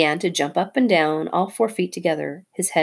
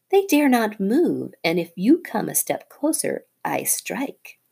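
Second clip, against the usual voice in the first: taunting cobra; 4 semitones higher than usual. Acted. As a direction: gloat over the frozen family. Nagina taunts Rikki.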